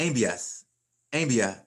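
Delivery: envías, envía as EN-vyas, EN-vya; stress on first syllable. Shown as a demonstration. Teacher showing forms without accent marks, first-syllable stress. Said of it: "if it didn't have an accent mark on it".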